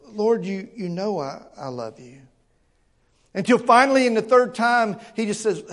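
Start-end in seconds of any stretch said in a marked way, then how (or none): 0.1-2.2 Peter answering, fading much softer; broken voice. Acted. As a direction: voice sinks away on the last words. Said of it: "can you hear the brokenness in his voice".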